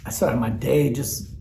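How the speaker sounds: slow, whispered through real tears; can barely voice it, still crying; tearful whisper. Real, not acted. Telling viewers about his morning, whispering through tears.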